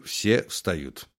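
ordinary delivery, nothing marked

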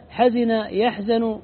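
حزن يحزن spelled out slowly, hazina then yahzanu; slow, careful say حزن يحزن; two word forms. Shown as a demonstration. Teacher contrasts the two dialect forms, slow and deliberate. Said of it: "وهما لغتان".

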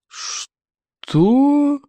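high terrible roar. A narrator's reading. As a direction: bellow it terrifyingly. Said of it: "взревел Плевак и страшным голосом".

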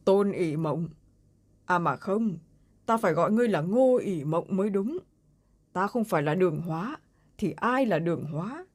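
a strange man's voice from the dark; sudden switch to an uncanny male voice; eerie male voice. Acted. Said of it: "Giọng nữ trong bóng tối lại đột nhiên biến đổi".

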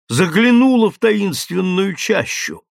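plain reading voice

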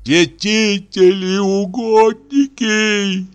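high, slow, loud wailing appeal to the saints; panicked old clerk calling on the saints; terrified prayer. A narrator's reading. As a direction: cry out to the saints in terror. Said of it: "ужаснулся он".

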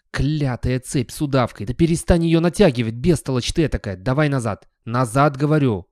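loud, exasperated ordering about; irritated scolding. Acted. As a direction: scold a dim dog loudly. Dog curses chain, orders other dog.

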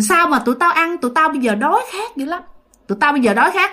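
possessed ghost voice. Retold or imitated. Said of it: "giọng đàn ông".

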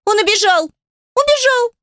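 put-on very high, whiny little-girl wail; high, tearful childish complaint; whimpering child. A narrator's reading. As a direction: whine it out like an upset child. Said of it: "Адель захныкала".

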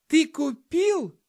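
put-on excited kid voice; thrilled. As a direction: squeal it in delight. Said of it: "восторженно посмотрел на меня Петька".

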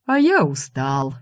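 slow, tired drawl of a dragon; sleepy snoring dragon. A narrator's reading. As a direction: yawn the words out drowsily. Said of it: "заявил дракон".

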